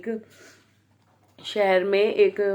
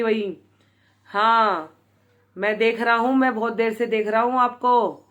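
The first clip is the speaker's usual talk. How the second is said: threatening. Retold or imitated. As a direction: retell the leader's raised, threatening voice. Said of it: "बाबा जी को धमकी देने लग गए".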